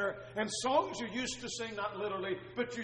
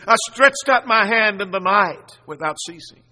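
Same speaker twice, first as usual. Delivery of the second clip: loud, emphatic scripture declamation; fervent plea; 3 semitones higher, 11 dB louder than usual. Acted. Preacher quoting the psalmist's prayer in the night, fervent plea. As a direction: proclaim it with full force.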